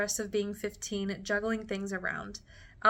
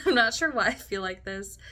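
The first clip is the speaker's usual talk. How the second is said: near tears; 5 dB louder than usual. Real, not acted. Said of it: "I don't wanna cry".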